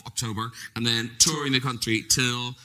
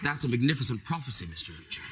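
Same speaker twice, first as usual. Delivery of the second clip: movie villain line; 3 semitones lower than usual. Acted. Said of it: "I acted with Tom Cruise".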